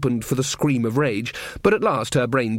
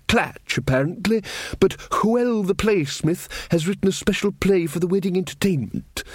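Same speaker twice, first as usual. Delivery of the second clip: Verence's voice; 6 semitones higher than usual. Acted. King Verence scolding the trumpeter, higher, fussy. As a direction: play the earnest little king going on about pigs.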